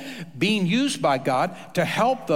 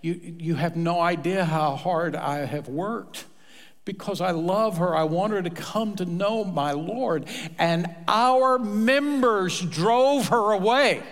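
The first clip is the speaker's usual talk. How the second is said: mildly angry; 2 semitones higher than usual. Retold or imitated. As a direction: retell her hurt anger. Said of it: "she said".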